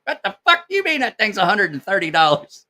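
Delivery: imitating dad cursing. Dad cursing at catalog price.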